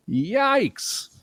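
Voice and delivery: breathy high whispered yikes. Real, not acted. Host reacting to a listener's big salary, whispered yikes. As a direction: gasp it out in disbelief.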